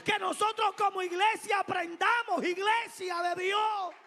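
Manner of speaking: high, loud, shouted preaching; rousing sermon climax, loud and high; preaching at full force. Acted.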